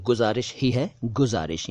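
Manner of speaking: गुजारिश as guzarish, no throaty sound; correct hard G. Shown as a demonstration. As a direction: model गुजारिश with a clean hard g. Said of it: "ग के नीचे नुक्ता नहीं है".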